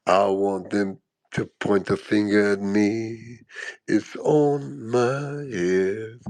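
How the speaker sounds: a hint of a brooding rapper; imitating him. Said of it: "this is what he was saying".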